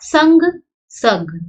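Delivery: संग nasal then सग bare, very slowly; slow contrast. Shown as a demonstration. Teacher slowly contrasts संग and सग. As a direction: draw out संग and सग side by side. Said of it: "अंतर पड़ गया".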